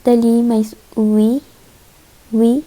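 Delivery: "ui" glided like w plus i, slowly; slow, careful "ui" glide; vowel demo. Shown as a demonstration. Teacher modelling the vowel for the class, slow glide. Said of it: "meio que fosse um W".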